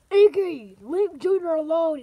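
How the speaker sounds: a hint of a stern father telling Iggy off; stern dad order. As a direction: scold like an annoyed father.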